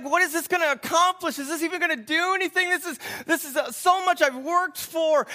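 a touch of freaking out; mild retold panic. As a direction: plead like a boy starting to panic. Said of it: "He starts to panic a little bit".

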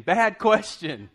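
slow, laughing high mock verdict; laughing aside. Preacher mocks Peter's question to the crowd, laughing. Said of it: "I'm thinking".

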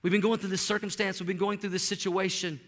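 a mild take on a weary congregant; resigned churchgoer. Retold or imitated. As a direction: voice the tired complaint of a worn-out believer. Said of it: "people say things like this".

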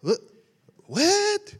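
high, startled "What? What?"; a mock disbelieving protest; shocked refusal. Pastor retelling his answer to God, high and startled. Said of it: "I like".

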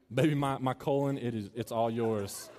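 laughing mock lover.

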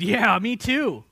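loud, drawn-out chiming in; eager agreement. Acted. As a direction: join the pledge, high and slow. Disciples chiming in, acted.

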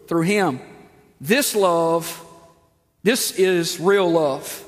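slow, solemn scripture reading. Acted. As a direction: read each verse slowly and deliberately. Reads scripture slowly.

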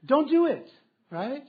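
real laughter, mock scolding; laughing warning. Real, not acted. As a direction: laugh through a loud, high warning.

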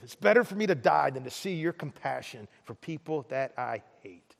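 low, subdued bitter complaint to God; unhappy Jonah. Acted. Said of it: "Jonah was not very happy about it".

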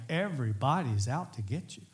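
unhurried, weighty on "everybody's"; earnest complaint. Retold or imitated. Preacher relating to David's feeling of being hunted, earnest delivery. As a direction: say it in earnest, each word given room. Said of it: "sometimes it isn't a joke".

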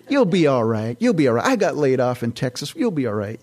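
lightly imitated Texan saleswoman; a touch of Texas twang, reassuring; Texas accent. Texas lady reassuring a laid-off customer, light Texas accent. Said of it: "She's from Texas".

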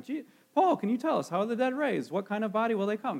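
high, innocent curious asking; honestly wondering. Shown as a demonstration. Preacher shows the question as an innocent one, sincerely wondering. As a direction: ask it as if you truly want to know. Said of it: "like they were honestly wondering".

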